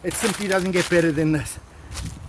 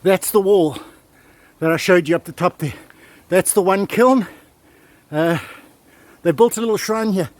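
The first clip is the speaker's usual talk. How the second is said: louder, bursting with excitement; loud excited; 5 dB louder than usual. Real, not acted. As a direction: call it out, thrilled by the find. Thrilled explorer at ruins.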